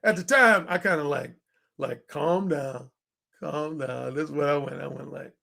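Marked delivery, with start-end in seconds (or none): 2.1-4.1 low, soft hushing; calming the crowd. Retold or imitated. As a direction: settle them down gently. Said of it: "I just went like this".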